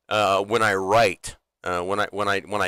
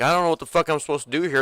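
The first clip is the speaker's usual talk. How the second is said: fast, higher-pitched courtroom protest; Ricky; 6 semitones higher, much faster than usual. Retold or imitated. Imitating a TV character lost in court, hurried protest. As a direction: rattle it off like a baffled defendant. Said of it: "Ricky goes to court, and he's all like".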